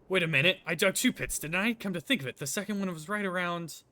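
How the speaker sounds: wait, it just clicked; dawning surprise. Acted. Villain realizes his own trap.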